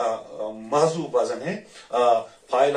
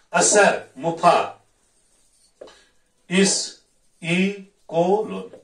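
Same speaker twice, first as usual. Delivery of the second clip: very slow, chopped into beats with pauses, higher; syllable-by-syllable scansion; 5 semitones higher, 5 dB louder, much slower than usual. Shown as a demonstration. Teacher scanning the meter for students, beat by beat. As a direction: tap out each beat of मुफाइलुन. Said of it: "ये मुफाइलुन बनेगा".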